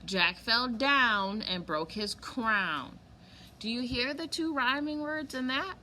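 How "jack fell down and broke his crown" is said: slow emphatic reading. Shown as a demonstration. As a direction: lean on the rhyming words slowly. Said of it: "I'll read it again".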